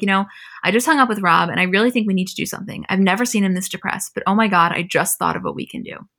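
normal talking voice

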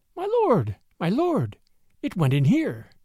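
squeaky, drawn-out, slow, swooping jackal voice. Narrator reads Tabaqui calling from behind Shere Khan at the cave, squeaky Tabaqui voice. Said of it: "was squeaking".

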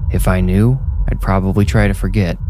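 plain

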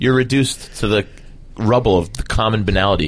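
ordinary delivery

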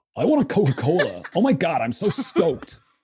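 put-on American accent. British speaker shows how easy American accents are for British people; American accent. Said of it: "British people to do American accents".

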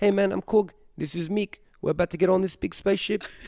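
put-on New Zealand-accented speech. Recalling a Thor conversation, the speaker does a Korg impression. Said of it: "My Korg impression".

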